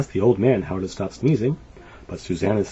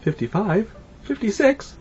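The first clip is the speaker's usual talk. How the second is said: building count. A narrator's reading. Counting climbing sneezes.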